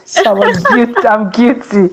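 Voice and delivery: laughing through the words, pitch slightly lifted; laughing confession. Real, not acted. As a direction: own up with a laugh. Amused confession about the host's birthday.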